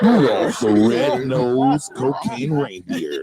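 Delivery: movie trailer voice. Acted. Mock trailer title, slow.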